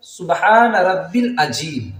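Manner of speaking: سبحان رب العظیم with ربی cut short; wrong recitation. Shown as a demonstration. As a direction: drop the ی in رب. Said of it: "لوگ کس طرح پڑھتے ہیں". (غلط ادائیگی)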